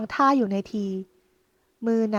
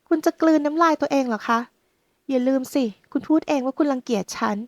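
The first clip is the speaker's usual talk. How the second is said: protesting; 3 semitones higher than usual. Acted. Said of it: "หญิงสาวท้วง".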